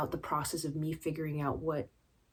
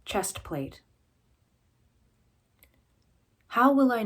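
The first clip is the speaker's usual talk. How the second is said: measured recital with deliberate pauses; poetry reading. Acted. Poet reading about armour they cannot shed, measured recital. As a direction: recite it line by line, building through the list of fears, then easing. Reads own poem.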